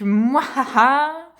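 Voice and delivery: slow evil cackle; unhinged villain. Pretend. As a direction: cackle slowly like a cartoon villain. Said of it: "Quel est ton rire diabolique?".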